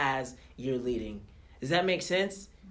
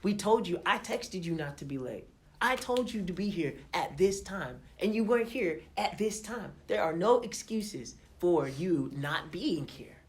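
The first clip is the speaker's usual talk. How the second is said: hypothetical scolding; 4 semitones higher than usual. Pretend. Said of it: "could have gone off on her".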